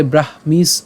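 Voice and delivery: ব্রাহ্মীস ending on the s borrowed from sthiti; s joined on. Shown as a demonstration. Teacher eases a hard cluster, ব্রাহ্মীস closed on s. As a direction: carry ব্রাহ্মীস through to a final s. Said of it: "আমরা কি উচ্চারণ করতে পারি".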